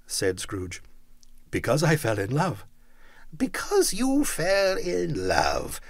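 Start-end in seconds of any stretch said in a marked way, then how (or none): 3.4-5.8 slow, mocking growl. A narrator's reading. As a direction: sneer it back slowly. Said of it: "growled Scrooge".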